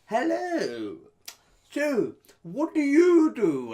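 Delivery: high, loud, slow mock-sweet woman; mock posh wife. S0 mimics the actor wife greeting him, high hammed-up voice. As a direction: ham up the fake wife's chirpy greeting. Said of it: "she's like".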